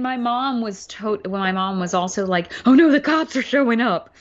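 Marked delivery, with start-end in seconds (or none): 2.7-4.1 higher, louder, quick mock alarm; imitating worried mom. Daughter quoting mom as the cops show up, worried. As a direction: fret aloud as a worried mom. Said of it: "she did the same thing".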